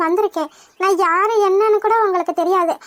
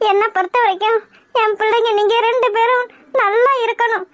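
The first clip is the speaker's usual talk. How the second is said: tearful plea. Acted. Mother pleads, tearful.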